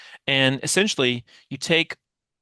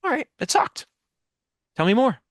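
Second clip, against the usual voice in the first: higher, open and eager invitation to say more; I'm here for it, tell me more; ready and engaged; 8 semitones higher than usual. Shown as a demonstration. Coach shows the pushback pivot reply, open and eager. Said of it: "do you notice how my face is saying, "I'm here for it. I'm ready for it".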